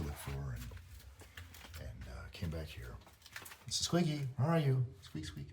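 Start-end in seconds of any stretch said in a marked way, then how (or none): 3.7-4.8 high, searching pet call. Retold or imitated. Owner looking for Squiggy in the back room, calling out. 5.0-5.5 high, soft animal squeaks; little squeak. Retold or imitated. Squiggy answering from the back room, little squeak. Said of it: "I heard a little squeak".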